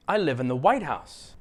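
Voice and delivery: "White House" as one word, peak on White; stress on WHITE. Shown as a demonstration. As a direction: hit White and let House drop. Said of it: "stress these two words as if they are one word".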